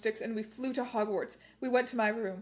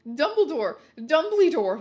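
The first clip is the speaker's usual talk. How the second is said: loud, higher calls for help; calling out; 4 semitones higher, 6 dB louder than usual. Acted. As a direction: yell for Dumbledore. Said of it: "we both yelled".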